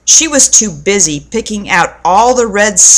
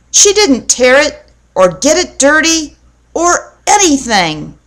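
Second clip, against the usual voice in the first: put-on little girl; 6 semitones higher than usual. A narrator's reading. Little girl defends doll.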